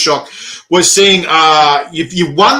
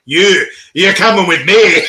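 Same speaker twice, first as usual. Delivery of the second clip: laughing quote; 3 semitones higher, 3 dB louder than usual. Retold or imitated. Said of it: "He's like".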